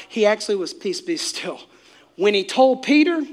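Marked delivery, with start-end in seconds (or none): 0.7-1.6 annoyed. Acted. Jesus to the storm, annoyed rather than yelling. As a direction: say it softer, mildly fed up. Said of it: "he was speaking very annoyed".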